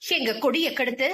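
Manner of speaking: scornful accusing voice climbing up; haughty rage. Acted. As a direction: lash out at the unwanted girl. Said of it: "ஓங்கி ஆங்காரமாய் ஒலித்தது".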